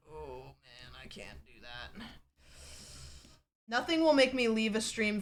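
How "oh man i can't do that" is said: mock defeated mumble. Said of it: "I'm like".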